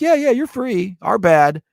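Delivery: a lightly voiced careless official. State officials casually freeing him.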